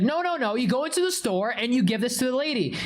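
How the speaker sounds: mild mock yell; imitated yelling. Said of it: "why are you yelling at me".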